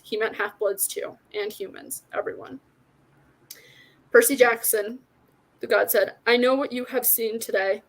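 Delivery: measured read-aloud with light character acting; story narration. A narrator's reading. Reader shares a favorite fantasy book with listeners, story narration. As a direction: read the tale out clearly and steadily.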